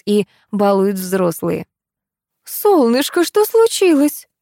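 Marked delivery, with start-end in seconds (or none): 2.4-4.3 higher, slow alarmed call; mother rushing to her daughter, cries out in fear; frightened cry. A narrator's reading. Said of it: "закричала Нина Анатольевна".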